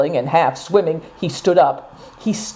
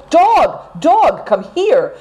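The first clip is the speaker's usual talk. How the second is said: much higher, louder calls to the dog; calling out, panting; 10 semitones higher, 3 dB louder, much slower than usual. A narrator's reading. Seven Stars calls the poodle at the foot of the hill, loud high calls. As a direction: call the dog urgently while out of breath. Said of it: "still calling".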